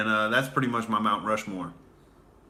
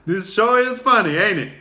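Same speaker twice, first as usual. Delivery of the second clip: smooth suitor; 8 semitones higher, 5 dB louder than usual. Retold or imitated. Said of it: "It's like".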